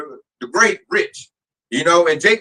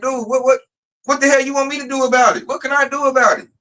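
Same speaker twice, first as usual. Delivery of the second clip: higher, fed-up what the hell; exasperated; 8 semitones higher than usual. Retold or imitated. Telling a crying coworker off, exasperated and high. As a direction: throw up your hands at him.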